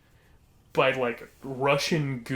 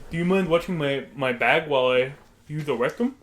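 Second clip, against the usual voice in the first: louder, lightly put-on odd man; odd customer impression; 5 dB louder than usual. Odd customer asking someone to watch his bag, imitated loudly. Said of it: "It's how he sounded".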